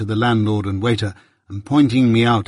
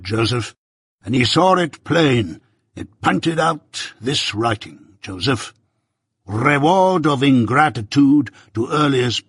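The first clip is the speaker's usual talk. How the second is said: lightly voiced pompous old busybody; a hint of a self-important uncle holding forth; Pumblechook, pompous; 3 semitones higher than usual. Pumblechook lecturing young Pip at breakfast, lightly pompous voice.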